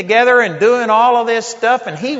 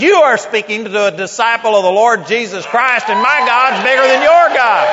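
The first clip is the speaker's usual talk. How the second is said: rising to a louder, higher challenge; defiant retort; 3 semitones higher, 4 dB louder than usual. Retold or imitated. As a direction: throw it back in his face. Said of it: "I got right back in his face".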